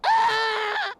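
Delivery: very high, full-out shriek; piercing scream. Acted. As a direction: scream like a terrified child. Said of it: "began to scream".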